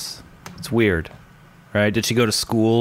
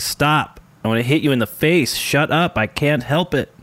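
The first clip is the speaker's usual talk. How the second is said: higher-pitched playful retold squabble; mock-annoyed outburst, pitched up; mock exasperation; 5 semitones higher than usual. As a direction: act out being fed up, half-seriously. Retold squabble over accents.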